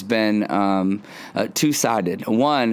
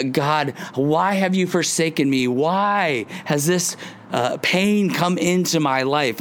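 mock lament; 5 semitones higher than usual. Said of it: "in some ways we're like".

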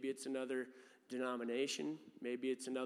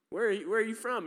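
incredulous question; 8 semitones higher, 8 dB louder, faster than usual. Retold or imitated. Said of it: "my friend was like".

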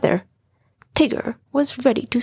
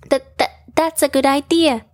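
timid, stuttering voice; nervous stammer; 3 semitones higher, 3 dB louder, faster than usual. Acted. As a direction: stammer it out shyly. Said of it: "Piglet approached the squirrels nervously".

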